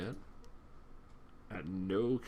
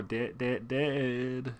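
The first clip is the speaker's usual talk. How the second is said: southern twang; 3 semitones higher, slower than usual. Real, not acted. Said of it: "I've gotten very southern".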